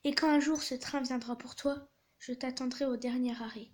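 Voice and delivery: measured closing line of a tale; story read-aloud. A narrator's reading. Mother promising to wait for her son, understated story reading. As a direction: deliver the ending as a storyteller.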